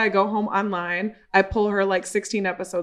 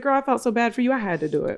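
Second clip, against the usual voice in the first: laughing through it; a sympathetic friend, half laughing; laughing sympathy; 4 semitones higher, faster than usual. Retold or imitated. The client telling her she felt bad for her, laughing. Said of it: "She said".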